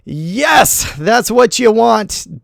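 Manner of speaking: a quick shouted yes of triumph; real delight at the screen; excited cheer. Real, not acted. Queen plays it right.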